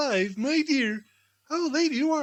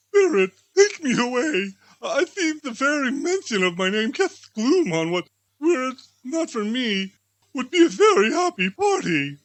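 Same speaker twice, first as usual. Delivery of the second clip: pleading; 4 dB louder than usual. Acted. Scrooge begs the spirit.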